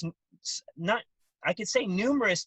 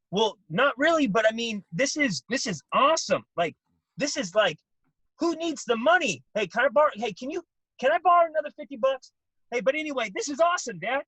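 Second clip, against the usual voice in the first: higher, louder, breathless excitement on the phone to dad; giddy son; 6 semitones higher, 5 dB louder than usual. Retold or imitated. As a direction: gush to dad about life on the road.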